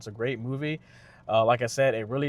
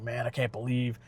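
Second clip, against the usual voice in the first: salty grumbling. Retold or imitated. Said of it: "now he's all salty about it".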